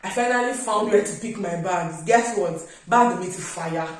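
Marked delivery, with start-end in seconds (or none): 2.0-3.9 louder, building it up like a punchline; loud dramatic reveal. Real, not acted. Telling viewers her bag was ruined, in a loud dramatic reveal. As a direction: announce the disaster with mock drama.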